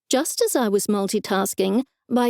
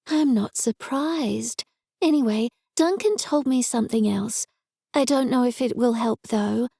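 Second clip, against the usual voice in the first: excited worried friend; 2 semitones higher than usual. Acted. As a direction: gush with alarm on the phone. Tara's voice.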